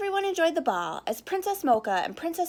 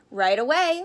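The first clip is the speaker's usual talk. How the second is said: stuttering; 7 dB louder than usual. Acted. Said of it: "stuttered Chocolate Chip".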